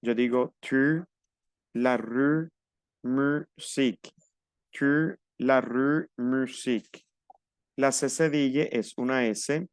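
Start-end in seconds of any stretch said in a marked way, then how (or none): 0.6-4.1 tu, la rue, musique with U as rounded "ee"; spaced-out examples, musique slowly split; rounded French U. Shown as a demonstration. Teacher gives U examples to learners, careful rounded U. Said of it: "La U es U". 4.7-7.0 tu, la rue, musique slowly, U as rounded "ee"; rounded French U. Shown as a demonstration. Teacher repeats U examples to learners, slow rounded U. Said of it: "La U es U".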